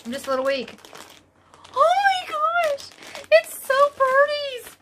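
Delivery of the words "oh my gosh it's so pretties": very high, drawn-out, louder gush; excited squeal. Real, not acted. Vlogger opening her yarn parcel, excited squeal. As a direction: squeal slowly with delight. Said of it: "My voice goes really high when I'm excited".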